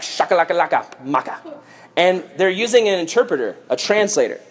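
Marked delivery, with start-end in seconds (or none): 0.0-1.4 made-up Egyptian gibberish; mock Egyptian. Disguised Joseph addresses his brothers, in mock Egyptian. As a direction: rattle off nonsense syllables as fake Egyptian. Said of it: "Joseph is speaking Egyptian".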